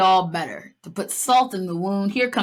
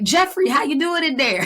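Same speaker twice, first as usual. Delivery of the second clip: higher, louder mock call; Tina calling in; 8 semitones higher, 4 dB louder than usual. Podcaster voicing Tina calling into the fridge, a higher louder call. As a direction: sing it out like calling through a door. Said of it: "she was like".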